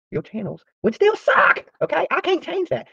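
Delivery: high, loud, slow taunt. Real, not acted. Vlogger taunting rival channels, slow loud mockery. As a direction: drag out the insult.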